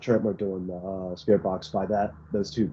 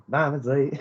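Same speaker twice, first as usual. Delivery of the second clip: higher-pitched mimicry, about to laugh; imitated recorded voice; 5 semitones higher than usual. Investigator recalling the thing heard every time, amused higher mimicry. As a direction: mimic the odd little voice, higher. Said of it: "have to hear that thing".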